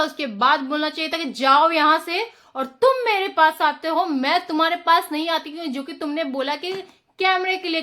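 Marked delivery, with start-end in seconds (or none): 1.2-5.5 firm raised voice, pushing him away; a moderately louder, assertive go away; louder, firm retort. Shown as a demonstration. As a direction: speak up and put him in his place. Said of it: "अपना voice को लो-, loud करना था".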